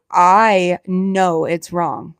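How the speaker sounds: slowly drawn out, knowing she's wrong; slow admission. Real, not acted. To teasing viewers, slow admitting it's wrong. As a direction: stretch it out like a confession.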